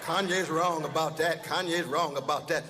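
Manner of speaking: imitating a rapper. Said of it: "What are you saying, rapper?".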